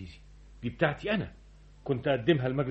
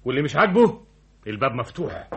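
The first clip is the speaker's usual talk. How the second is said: stern; 5 dB louder than usual. Acted. Director lays down the law.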